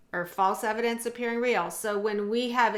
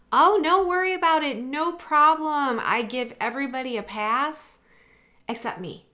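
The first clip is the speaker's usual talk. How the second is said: put-on old forgiving self; 6 semitones higher, 4 dB louder than usual. Mimics her old forgiving self.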